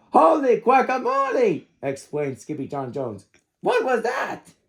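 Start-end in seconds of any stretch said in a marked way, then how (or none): 0.1-1.7 high surprised cry of a puppy; squeaky surprised exclaim. Acted. Startled puppy yelps at his reflection, high and surprised. 3.6-4.5 high, curious little voice; puzzled puppy. Acted. Puppy wonders at the mirror, high and puzzled.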